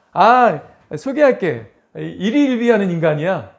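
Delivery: a hint of a loud teasing introducer; mocking introduction. Someone introducing you to others in mild mocking tone. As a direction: introduce him with a jab, mildly mocking. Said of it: "누가 나를 소개하는데".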